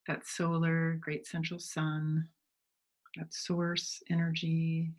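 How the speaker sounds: unhurried meditation guide, long pauses between phrases; measured phrases that invite visualizing; guided meditation. Real, not acted. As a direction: gently lead listeners inward, leaving space to breathe.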